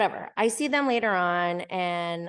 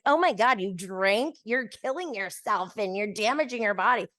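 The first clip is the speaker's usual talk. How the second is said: mock horror; 2 semitones higher than usual. Acting a preachy person she isn't.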